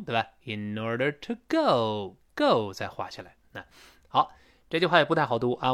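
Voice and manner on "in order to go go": "In order to" lifting, GO sliding down; rise, then fall. Shown as a demonstration. Teacher modelling the tune, rising then falling GO. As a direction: raise "In order", then drop on "go". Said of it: "in order声音开始往上扬一点儿".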